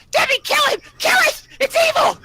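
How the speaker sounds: very high, loud hysterical shriek. Acted. Man to assistant about the rat, screaming. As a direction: shriek for help in a hammed-up panic. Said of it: "he starts screaming even louder".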